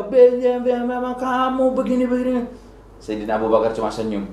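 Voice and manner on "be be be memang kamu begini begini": a retold angry man berating; mock scolding rant. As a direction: rant at him in a huffy voice. Angry man scolds Abu Bakar.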